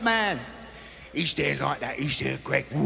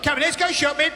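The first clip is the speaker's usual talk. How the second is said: lightly voiced Greg; 6 semitones higher, faster than usual. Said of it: "He takes them".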